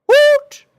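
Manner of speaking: very high, loud hooting call; owl hoot. Acted. The owl Aloysius hoots in pain, high and loud.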